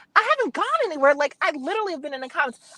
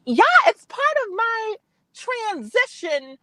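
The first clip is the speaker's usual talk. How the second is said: voice snatched up octaves. Real, not acted. Caller owning up to the Minnie Mouse remark, voice pitched up. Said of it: "snatched up my voice a few octaves".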